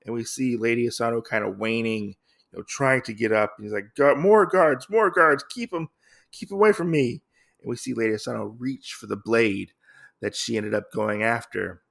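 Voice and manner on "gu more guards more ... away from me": higher-pitched mock cry for help; mock panic. Oda calls guards to keep attacker away, mock panic. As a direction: play-act a lord calling urgently for guards.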